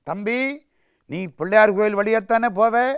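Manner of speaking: lightly acted big-brother admonishing; elder brother instructing. Elder brother instructs younger in story.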